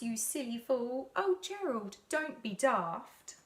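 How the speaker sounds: a light tease; mild mocking. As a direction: animals teasing Gerald, mildly mocking. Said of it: "the animals all laughed".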